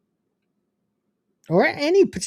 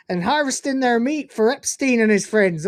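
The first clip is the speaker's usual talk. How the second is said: hammed-up Cornish farmer; Cornish accent; 3 semitones higher than usual. Shown as a demonstration. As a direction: keep up the broad Cornish yokel. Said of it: "in a Cornish accent".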